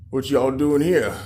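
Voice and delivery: lightly voiced toad, slow drawn-out challenge; toad intruder. Big toad confronting the fairy creatures, lightly acted challenge.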